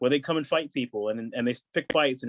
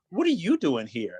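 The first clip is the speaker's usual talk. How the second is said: slightly raised, puzzled churchgoer's question; retold puzzled question; 4 semitones higher than usual. Church lady to him at hardcore show, mildly puzzled.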